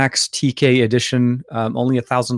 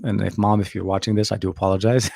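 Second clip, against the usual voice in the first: put-on soft Arabic-accented apology to mom; 4 semitones lower, 6 dB quieter than usual. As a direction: channel mom's Arabic accent gently. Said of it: "trying to channel a little bit of my, uh, my mom".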